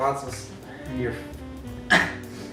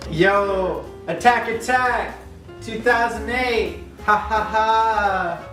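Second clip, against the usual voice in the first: hyped battle cry; 6 semitones higher, slower than usual. Pretend. Friend hypes, mock battle cry.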